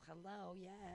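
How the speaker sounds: a hint of a prissy Valley Girl greeting; mock Valley Girl. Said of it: "he turned you into a little Valley Girl".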